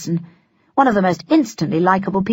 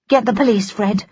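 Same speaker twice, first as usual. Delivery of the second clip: commanding; 3 semitones higher than usual. Acted. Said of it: "she commanded".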